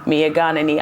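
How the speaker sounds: Mia Ghanani said in Twi, mee-a gah-nah-nee, all syllables even and level; Twi phrase. Shown as a demonstration. Artist to interviewer, proudly saying Mia Ghanani in Twi. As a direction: say Mia Ghanani as a Twi speaker would, unhurried. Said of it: "as we say in my language in Twi".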